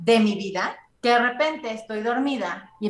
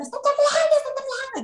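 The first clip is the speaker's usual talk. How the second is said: high panicked cry that the house is shaking; retold panicked scream. Waking at night, yelling to her parents: high panicked scream. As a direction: scream it like waking mid-quake in terror. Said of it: "me levantaba todas las noches gritando".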